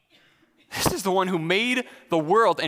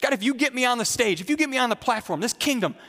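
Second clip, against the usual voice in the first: frustrated; 3 semitones higher than usual. Acted. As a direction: complain to God as if shortchanged. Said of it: "in frustration and say".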